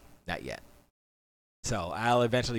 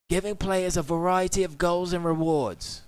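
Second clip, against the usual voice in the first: higher British accent reading; 5 semitones higher than usual. Shown as a demonstration. Streamer reading the patch notes in a British accent. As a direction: read it as a Brit. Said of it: "I gotta do it in a British accent".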